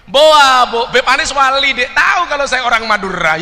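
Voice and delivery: high, loud astonished Madurese; Madurese reply. Retold or imitated. Madurese guest answers Habib Anis, loud amazed Madurese accent. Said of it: "Apa jawaban orang Madura ini".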